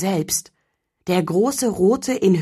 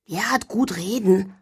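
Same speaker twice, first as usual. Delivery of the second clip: grumbling; 2 semitones higher than usual. Acted. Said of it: "murrte Elfried".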